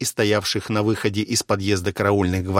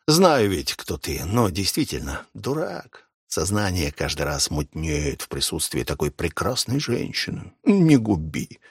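theatrical repentance; 3 semitones lower than usual. Acted. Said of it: "картинно упал на колени и покаянно".

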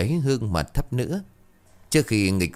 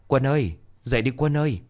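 worried calling; 5 semitones higher, faster than usual. Acted. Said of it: "lo lắng rồi gọi tiếp".

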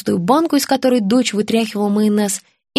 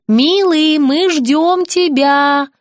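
higher, louder call to the table; 6 semitones higher, 3 dB louder, much slower than usual. A narrator's reading. Wife calling her husband to the table, loud and high. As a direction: sing out to him from the kitchen. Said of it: "крикнула Антонина".

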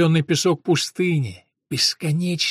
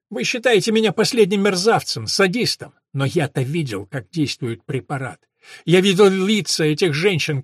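higher, mocking scholar's voice; sneering professor; 3 semitones higher, 4 dB louder than usual. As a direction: taunt him like a cornered professor. (насмешливый голос профессора)

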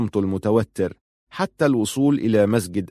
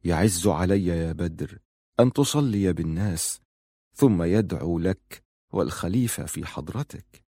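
low, softer voice of quiet displeasure; displeased; 4 semitones lower, 5 dB quieter than usual. Acted. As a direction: complain softly, hurt and resentful. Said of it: "في استياء". (the caliph reproaches Badr in a low, soft voice)

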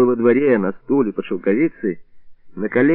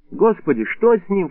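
alarmed cry; 8 semitones higher than usual. A narrator's reading. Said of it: "вскричала Бабаля".

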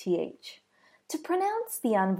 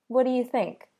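ordinary talk

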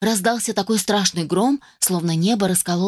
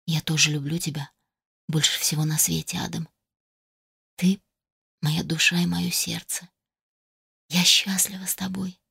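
soft heartfelt confession; 5 dB quieter than usual. Acted. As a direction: say it softly with feeling. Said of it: "произнесла с чувством".

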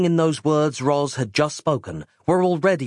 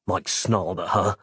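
usual speaking voice

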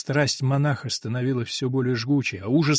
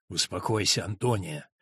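тихо и низко; 7 semitones lower, 6 dB quieter than usual. Acted. Монах подавляет сопротивление.

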